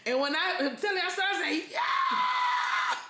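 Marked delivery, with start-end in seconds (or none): 1.7-3.0 a very high yelp of shock; shocked yell. Retold or imitated. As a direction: let out a startled cry. Shocked reaction to replay.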